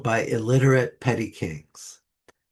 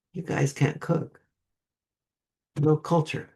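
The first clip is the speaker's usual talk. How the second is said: lightly put-on French accent, higher pitched; a hint of a fancy French voice, pitched up; 5 semitones higher than usual. The French looking down on the British, in a lightly fancy French accent. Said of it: "in that fancy nasal accent".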